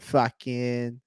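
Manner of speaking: "fucking" in a put-on Boston accent. Shown as a demonstration. Explaining the comedy bit, Boston accent on "fucking". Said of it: "impossible to imitate a Boston accent without saying".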